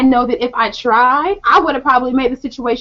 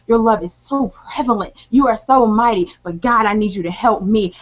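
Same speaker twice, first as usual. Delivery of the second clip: prayer; 3 semitones lower than usual. Shown as a demonstration. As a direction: pray it gently, as to God. Demonstrates her prayer.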